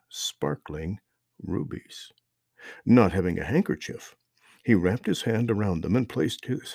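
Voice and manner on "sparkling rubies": hushed, awed whisper. A narrator's reading. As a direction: breathe the words in wonder. Awed reveal of found gems.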